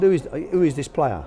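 a faint hint of an Israeli accent; attempted Israeli accent. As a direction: try Berkovic's Israeli accent and give up on it. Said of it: "I can't do his accent".

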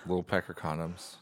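hushed joke whisper. Acted. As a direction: whisper it low. Joke whispered after mouse condoms.

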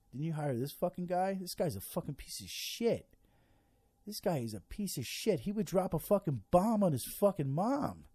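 mock tirade at the president; angry rant. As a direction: vent like you're yelling at him. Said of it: "I'm like".

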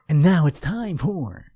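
big theatrical announcer voice; hammy stage actor. Pretend. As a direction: overplay it like a stage ham. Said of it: "Am I overacting it?".

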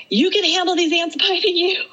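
high, laughing mock pep talk; self pep-talk. Telling herself she can handle ant bites, high pep talk. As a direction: egg yourself on, half laughing. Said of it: "yelling at myself".

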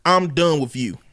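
lightly voiced angry country dad; racist country daddy. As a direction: cut her off like a country father. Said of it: "racist country daddy voice".

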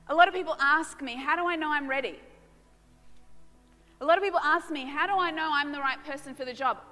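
loud, fast preaching; rising preach. Real, not acted. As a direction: build the voice up, urgent.

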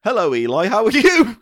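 high, loud put-on voice; put-on silly voice. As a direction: greet him in a silly high voice. Mock greeting in a put-on voice.

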